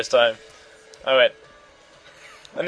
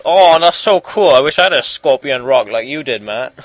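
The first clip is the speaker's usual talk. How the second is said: put-on awed kid; 5 dB louder than usual. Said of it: "he was like".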